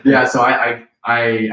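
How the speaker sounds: voice going high. Real, not acted. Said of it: "my voice goes high when I get excited".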